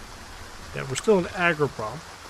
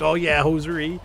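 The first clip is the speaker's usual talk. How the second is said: put-on Canadian accent; 3 semitones higher than usual. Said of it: "the really stereotypical Canadian accent".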